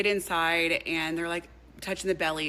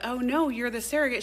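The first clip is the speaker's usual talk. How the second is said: higher, breezy matter-of-fact; mock breezy correction; 7 semitones higher, 3 dB louder than usual. The in-laws correcting the pregnant wife, breezy and higher. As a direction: tell her lightly like it's obvious. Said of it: "they're like".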